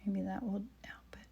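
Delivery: breath held, whispering; holding breath. Real, not acted. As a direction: hold the breath while speaking. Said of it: "I'm holding my breath".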